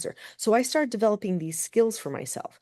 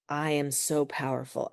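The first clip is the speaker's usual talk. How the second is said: inner voice; 4 semitones lower, 5 dB quieter than usual. Retold or imitated. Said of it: "and it said".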